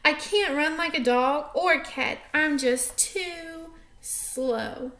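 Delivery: sad. Acted. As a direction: let it sink into sad defeat. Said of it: "She sounds sad".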